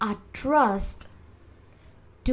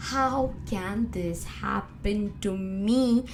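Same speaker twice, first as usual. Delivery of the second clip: slow, emphatic, mildly indignant question; acted anger. Acting out betrayal's second phase, slow contained anger. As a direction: stretch the words in restrained outrage. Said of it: "You get angry".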